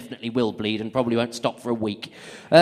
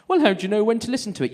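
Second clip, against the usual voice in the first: put-on old mum voice; 8 semitones higher, 4 dB louder, faster than usual.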